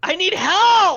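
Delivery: all-out, very high, very loud yell. Acting out a shout for help across a cemetery, retelling a loud yell. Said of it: "I yelled as loud as I can".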